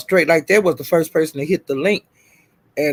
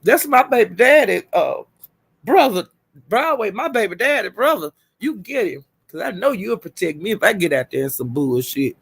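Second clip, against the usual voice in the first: cheering him on; 3 semitones higher than usual. Retold or imitated. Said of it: "I was saying".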